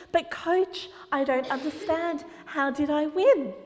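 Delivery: put-on amazed boy. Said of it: "he's so excited".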